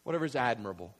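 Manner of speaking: normal talking voice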